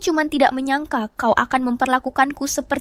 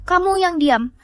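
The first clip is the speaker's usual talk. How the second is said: angry retort; 5 semitones higher than usual. Acted. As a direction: cut her off with a sharp shout. Shouting back in quarrel. (membentak dengan marah)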